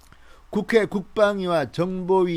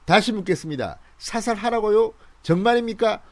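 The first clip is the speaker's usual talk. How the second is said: raised incredulous questioning; asking in disbelief; quoting a soldier; 5 semitones higher than usual. Retold or imitated. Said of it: "북한군도 놀란 겁니다".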